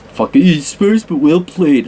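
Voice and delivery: drawn-out, mock East Coast New York accent; slow New York tough-guy drawl; a hammed-up New York East Coast accent, slow. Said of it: "New York East Coast".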